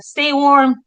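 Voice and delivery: light Minnesota drawl on "stay warm"; long Minnesota O's, lightly done; Minnesotan accent. Retold or imitated. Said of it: "the little phrases that I love".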